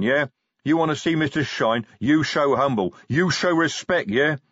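loud, indignant troll tirade; troll defending his god, furious; angry troll rant. Acted. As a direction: lash out at the boss in broken speech. Troll's angry outburst at Vimes.

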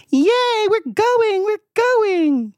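put-on very high, squealing little kid; excited child. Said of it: "It's like".

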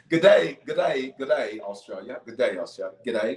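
playful attempt at an Australian accent; light mock Australian accent. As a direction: try out an Aussie greeting. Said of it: "when I think of Australian accents".

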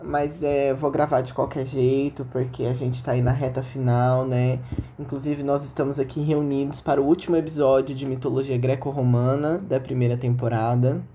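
hoarse from an inflamed throat; sore throat voice. Real, not acted. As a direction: speak through a sore throat. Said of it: "minha voz, ela tá um pouquinho diferente".

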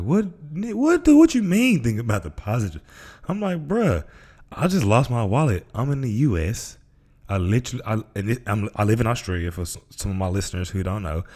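incredulous. Retold or imitated. Retold panic over lost wallet.

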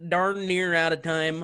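mock southern drawl. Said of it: "I went with the accent there".

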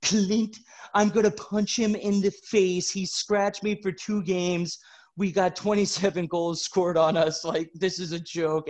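light mock of a teammate with a thick mouth; peanut butter voice. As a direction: say it as if your tongue sticks to the roof of your mouth. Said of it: "This kid's voice sounds like as if you had peanut butter on the roof of your mouth".

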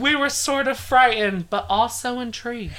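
hammed-up British quote; badly faked British witness; bad British accent. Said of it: "I can't do a British accent".

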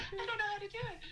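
words squeezed out while laughing. Real, not acted. Still laughing.

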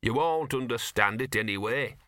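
mildly grumbled complaint; a touch of grouchiness; grumbling. Acted. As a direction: grumble it as a put-upon dog. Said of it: "he grumbled".

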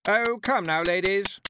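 high, loud pleading hostess; frantic coaxing in a high voice; almost frantic. A narrator's reading. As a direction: urge them on, close to panic. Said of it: "now almost frantic".

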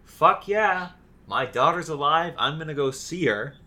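loud, high mock whoop; mock cheering Barrett. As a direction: play the overjoyed dad. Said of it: "Barrett's like".

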